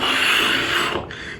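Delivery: long airy exhale; drawn-out breathy sigh in a retelling; retold sigh. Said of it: "I'm like".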